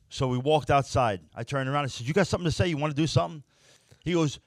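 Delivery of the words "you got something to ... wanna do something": challenge. Retold or imitated. Challenging the man outside.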